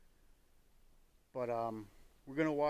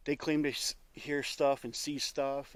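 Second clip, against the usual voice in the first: stumbling, restarting words; nervous stutter; 6 dB louder than usual. Real, not acted. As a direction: trip over the words nervously. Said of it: "Sorry if I'm stuttering".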